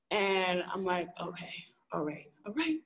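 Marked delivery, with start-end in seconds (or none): 1.2-2.8 much softer, nearly whispered; hushed, acquiescent murmur; meek retold reply. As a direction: back off under your breath. Backing off after being yelled at.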